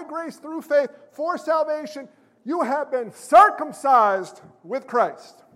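impassioned pulpit appeal; worked up. Real, not acted. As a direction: get carried away preaching, drawing out the key phrases. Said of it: "I'm getting a little worked up here".

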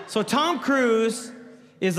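ordinary talk, nothing marked

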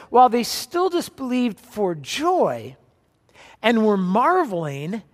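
slow, weighted scripture reading. Shown as a demonstration. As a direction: read it slowly, letting each word land. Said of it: "It says".

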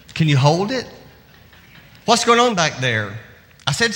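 lightly voiced busy mom scolding kids; a hint of a tired parent giving orders; harried mother. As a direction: rattle off a mother's nagging through the day. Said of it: "it would sound like this".

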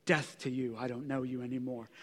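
dropped low and hushed, a cold dismissal; mock brush-off. Preacher mocks cutting off a relative, low and hushed. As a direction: mutter it under your breath like cutting someone off.

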